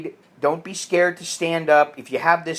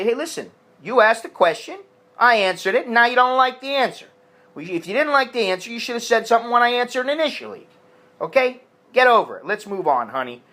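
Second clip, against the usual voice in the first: firm lecture; 5 semitones higher, faster than usual. Retold or imitated. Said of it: "you should stand up and say".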